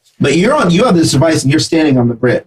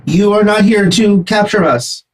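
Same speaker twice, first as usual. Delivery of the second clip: insect creature voice; 8 semitones higher than usual. Acted. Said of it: "Get an insect voice".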